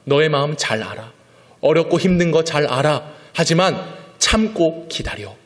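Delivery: slow, rising promise to wait; God's reassurance. Acted. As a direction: speak as God comforting his prophet. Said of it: "하나님께서 하박국에게 주신 메시지는".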